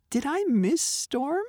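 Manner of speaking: high, slow cat question; meowing cat. A narrator's reading. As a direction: meow it sleepily. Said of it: "she meowed".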